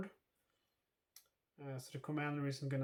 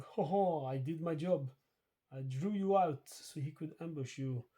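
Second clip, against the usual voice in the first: mock French accent, lightly done; a smug French soldier gloating, barely put on; a hint of French accent, cocky little laugh on Ho ho. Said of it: "why he has a French, uh, accent".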